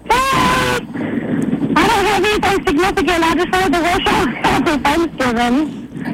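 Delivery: muffled speakerphone in the wind; wind tunnel sound. Real, not acted. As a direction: caller on a windy speakerphone. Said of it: "You sound like you're in a wind tunnel".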